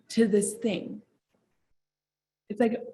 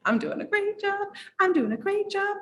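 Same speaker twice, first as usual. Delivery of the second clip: much higher, bright self-encouragement; mock self-pep talk; 11 semitones higher than usual. Bleeding on stage, telling herself she's fine: high mock pep talk. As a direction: cheer yourself on in a high pretend voice. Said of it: "Like, I'm like".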